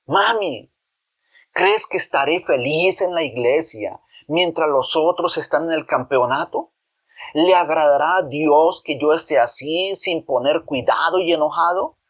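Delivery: put-on a child snapping back at his mother; angry shout. Boy yells back at his mother over the tournament, mildly angry. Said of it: "enojado, gritó a su mamá".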